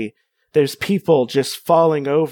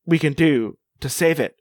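flat robot-y delivery; slower than usual. Acted. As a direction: drone it like a machine. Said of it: "I'll make it sound robot-y".

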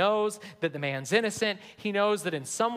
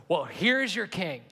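sarcastic. Retold or imitated. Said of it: "sarcastically saying to these Jewish people".

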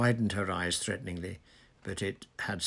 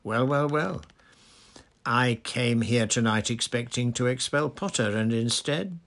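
raised, loud gloating voice; higher, forceful, relishing the moment; gloating delight; 4 semitones higher, 6 dB louder than usual. A narrator's reading. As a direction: savour an unexpected triumph aloud. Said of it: "now positively quivering with delight".

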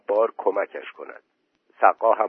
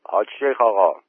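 mildly raised calling voice; loud call; 5 dB louder than usual. A narrator's reading. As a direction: call out to get his attention. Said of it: "با صدای بلند گفت". (با صدای بلند)

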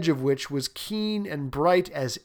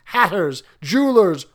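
loud, higher kingly listing; booming warrior king; 4 semitones higher, 6 dB louder than usual. Acted. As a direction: call out each trade like orders. King lists craftsmen.

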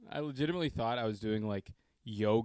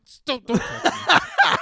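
much higher, louder, slow and laughing; laughing high yelp; 12 dB louder, much slower than usual. Retold or imitated. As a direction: shriek it through laughter. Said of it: "I was like".

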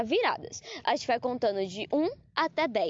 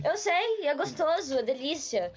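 sexy voice; 3 semitones higher than usual. Pretend. Showing friends the hottie voice, playfully sexy. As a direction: play at sounding seductive. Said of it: "Eu sei fazer voz de gostosa".

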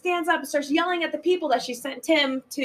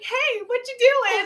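chirpy mock greeting; 10 semitones higher, 5 dB louder than usual. Missy popping up under stall.

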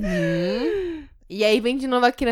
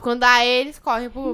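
normal talking voice

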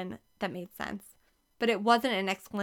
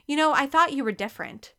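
louder, hurt and cross; disappointed and angry; 5 semitones higher, 6 dB louder, faster than usual. A narrator's reading. Barista scolding a customer who asked her out, disappointed and angry. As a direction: let him down hard, louder and upset. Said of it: "She sounded disappointed and angry".

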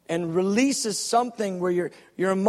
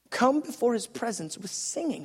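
quieter repeat of the verse; scripture reading, softer repeat; 6 dB quieter than usual. Shown as a demonstration. Preacher repeating the verse to the congregation, softer. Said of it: "look at this, verse two".

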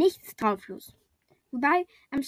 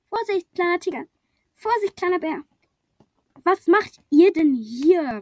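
higher, louder, slowing alarm; warning call; 6 semitones higher, 7 dB louder than usual. A narrator's reading. Tired mole warns tiger and bear, calling loudly.

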